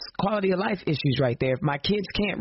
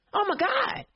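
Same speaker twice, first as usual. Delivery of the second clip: choked up; 10 semitones higher than usual. Real, not acted. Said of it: "I got a little choked up today".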